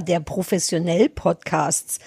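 slow, low, doubting echo; incredulous. Real, not acted. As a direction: drag it out in disbelief. Mocking the word professionell.

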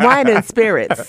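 "Wine and spirits." drawn out slowly and carefully; mock-careful "Wine and spirits."; slow deliberate phrase. Shown as a demonstration. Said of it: "learned after years in Pennsylvania to say".

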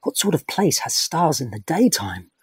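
hushed, breathy wonder under the stars; curious whisper. Acted. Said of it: "was saying curiously".

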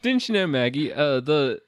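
put-on British accent slipping towards Australian; fake British accent. Sam tells Maggie about the original Spider-Man, in a slipping British accent. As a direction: explain in a wobbly mock British accent. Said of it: "now I'm doing Australian".

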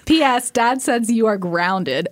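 a hint of a mother joking; mom impression. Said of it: "try to do an impression of my mom".

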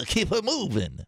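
mock Frenchman attempting Wisconsin talk; French accent. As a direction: put on a silly French accent. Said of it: "a Frenchman would come to Wisconsin".

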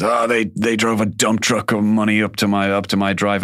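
Krusty the Clown. Retold or imitated. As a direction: brag like a sellout clown. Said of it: "he says".

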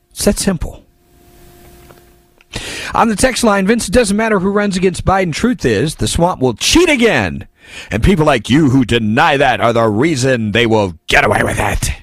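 reading a listener text in a mocking voice; lightly voiced angry texter; put-on caller voice. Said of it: "I know people get mad when I do that voice".

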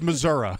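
"Missouri" with an UH ending; hick Missouri. Retold or imitated. Host mocks those who say it so, UH-ending pronunciation. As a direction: say "Missouri" as "Mi-ZUR-uh". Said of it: "they're dumb backwater hicks".

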